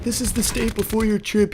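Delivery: cartoonish tiny wizard. Imaginary tiny wizard greets the tripping narrator, in a high squeaky voice. Mini Gandalf explains.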